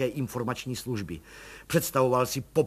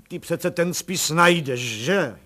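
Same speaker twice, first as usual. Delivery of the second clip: slow, louder and higher desperate plea; 5 semitones higher, 10 dB louder, slower than usual. Acted. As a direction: beg him to find it. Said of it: "zvolal plukovník zoufale".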